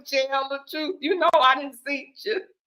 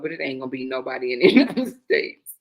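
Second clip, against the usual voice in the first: low start that cracks into a laugh; deadpan giving way to laughter; breaking into laughter; 12 semitones lower than usual. Real, not acted. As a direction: lose it near the end of the sentence. Cracks up mid-sentence, then repeats it.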